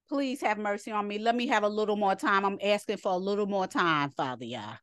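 lightly acted plea, sinking to a murmur; imitated tearful pleading. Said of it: "crying like a baby".

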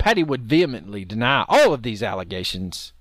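a brief yell on "all"; yelling into microphone. Real, not acted. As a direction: punch "all" too hard for the microphone. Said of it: "You're yelling into the microphone".

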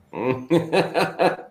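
short forced goblin king cackle; forced villain cackle. Acted. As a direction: squeeze out a reluctant evil laugh. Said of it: "That was a good impression".

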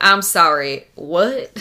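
put-on puzzled, in a light Southern accent; generic Southern accent. Imagined bar guest to the hosts, Southern accent. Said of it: "our generic Southern accent".

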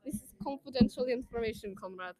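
imitated Russian accent. Retelling a birthday joke to co-host, mock Russian accent. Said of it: "I said it in a Russian accent".

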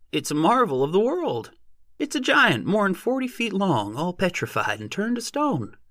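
very high, excited rustic squeal. A narrator's reading. Odd-job man raving about a petrified giant, squealing. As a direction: squeal it out to the crowd, voice broken high. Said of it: "His voice broke to a sort of squeal".

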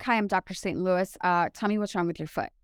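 low, unenthused doctor impression; imitating unfriendly doctor. Patient retells the mean podiatrist's greeting, imitating an unfriendly doctor. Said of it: "this is how she says it to me".

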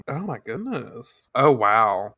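normal talking voice

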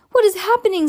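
high, loud alarmed shout; boy shouting in alarm. A narrator's reading. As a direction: call out in panic. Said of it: "Sam shouted".

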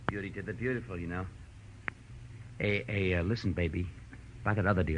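put-on soft, sweet-talking murmur to his girl; cooing on the phone. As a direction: coax her gently down the line. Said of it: "cooing into a dark nook".

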